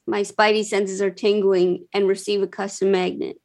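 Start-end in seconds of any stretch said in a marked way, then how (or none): 0.1-1.9 deadpan, no feeling at all; emotionless voice. Shown as a demonstration. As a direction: say it like a bored meme. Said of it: "in an emotionless voice".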